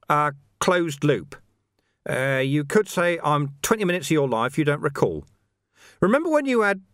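lightly voiced monk groping for an explanation; a hint of a patient monk; chatty monk. Narrator voices Sweeper the monk.

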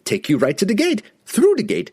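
very high, frantic merchant voice; frightened merchant. A narrator's reading.

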